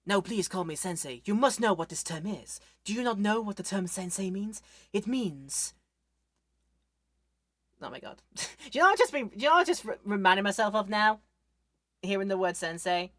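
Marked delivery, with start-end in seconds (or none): 0.1-5.7 pompous sensei. Retold or imitated. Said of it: "Call him sensei". 8.4-11.2 laughing. Real, not acted. Sudden laughing realisation.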